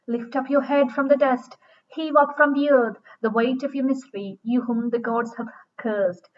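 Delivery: mildly commanding, measured verse reading. Acted. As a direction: order yourself up, phrase by phrase. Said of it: "she speaks in a very commanding voice".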